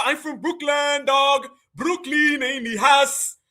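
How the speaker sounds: put-on slow, stretched parody of a Brooklyn accent; mock Brooklyn accent. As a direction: mimic an outsider faking Brooklyn talk. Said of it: "all Tethers was from New York back in the day".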